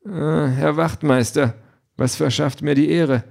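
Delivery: overly polite, stalling husband; feigned friendliness. A narrator's reading. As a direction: greet the officer with a put-on smile. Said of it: "Er lächelt schon freundlich".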